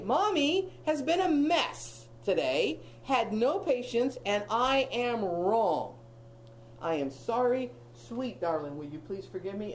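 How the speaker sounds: slow, gentle, humbled parent voice; tender apology. Pretend. Mother apologizing to her small children, slow and tender. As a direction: swallow your pride and soften.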